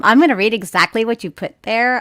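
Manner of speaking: put-on light Valley Girl voice; totally Valley Girl, like; Valley Girl accent. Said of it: "Valley Girl accent".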